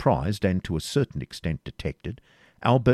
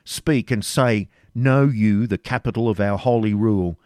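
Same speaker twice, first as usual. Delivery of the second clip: stern interrogation; 4 semitones higher, 6 dB louder than usual. A narrator's reading. Grand Master grilling the preceptor on the holy rule, stern. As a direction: press him hard with the rule.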